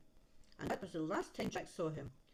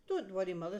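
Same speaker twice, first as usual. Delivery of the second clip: Jack reassuring; 5 dB louder, faster than usual. Acted. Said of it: "said Jack".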